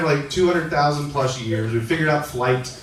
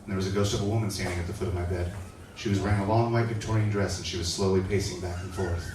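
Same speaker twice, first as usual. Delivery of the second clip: spooky retelling; 6 semitones lower, 8 dB quieter than usual. Retold or imitated. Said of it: "she's like".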